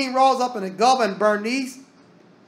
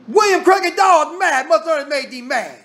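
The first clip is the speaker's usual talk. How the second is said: hollering; 6 semitones higher, 4 dB louder than usual. Retold or imitated. Preacher imagining Obama hollering at Paul, loud. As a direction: yell it like a politician jumping up. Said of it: "if Obama jumped up and hollered".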